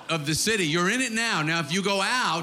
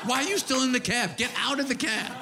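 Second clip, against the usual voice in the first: mock yell; 4 semitones higher than usual. Comic acting a cab ride, hammed-up higher shout. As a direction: bark it like a fed-up cabbie.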